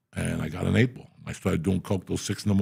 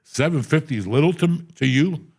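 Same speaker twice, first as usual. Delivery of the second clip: loud laughing shout, higher; 4 semitones higher, 4 dB louder than usual. Retold or imitated. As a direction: yell it out, half laughing. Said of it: "I'm like".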